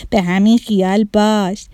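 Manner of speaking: loud, jeering cackle into a taunt; scornful bully laughing out loud; mocking laughter. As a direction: laugh at them, then taunt loudly. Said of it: "زد زیر خنده و گفت".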